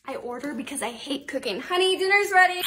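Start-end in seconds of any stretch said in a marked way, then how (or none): 1.6-2.6 higher-pitched call to another room. Acted. Mom calling her daughter to dinner, calling out. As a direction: call out for someone to come.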